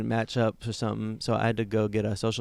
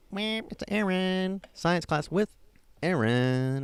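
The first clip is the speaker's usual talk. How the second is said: playful mock announcing; 8 semitones higher, slower than usual. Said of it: "all making everybody all laugh".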